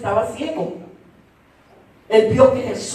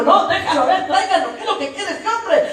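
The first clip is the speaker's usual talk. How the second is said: Jesus intervening; 7 semitones higher than usual. Acted. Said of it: "el Señor le dijo".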